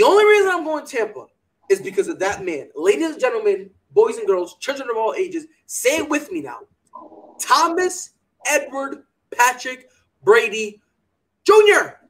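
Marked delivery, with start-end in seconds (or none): 2.7-12.0 grand entrance announcement. Acted. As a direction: announce him like a title fight. Hyped ring announcer introduction.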